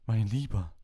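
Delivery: peer into the cup like a dramatic fortune teller; mystic seer voice. A narrator's reading. Trelawney to Harry, reading his cup in a high mystic voice.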